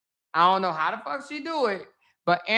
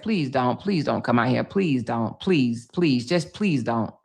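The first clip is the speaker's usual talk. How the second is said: begging; 7 semitones lower than usual. Retold or imitated. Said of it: "And I begged her not to".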